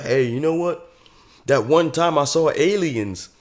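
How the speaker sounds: light Southern storyteller; mock Southern accent. Kid tells disbelieving folks he saw aliens, mock Southern accent. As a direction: put on a Southern accent for a tall tale. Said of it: "doing, like, a whole Southern accent".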